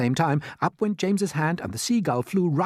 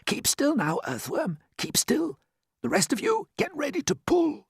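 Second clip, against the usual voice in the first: tense instructions. Acted. James directing the rescue.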